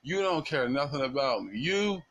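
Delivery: half-acted furious wife reproaching him; retold yelling at husband. Wife yelling at her husband for not defending her, mock angry. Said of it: "She's yelling at him like".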